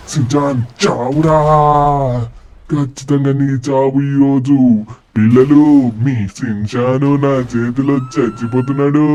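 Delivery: exultant villain calling out; gloating. Acted. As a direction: gloat to the kids. Villain gloating over victory.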